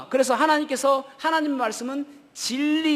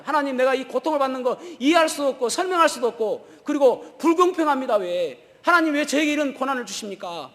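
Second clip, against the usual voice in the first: complaining to God; 4 semitones higher, 3 dB louder than usual. Retold or imitated. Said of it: "하나님께 원망하잖아요".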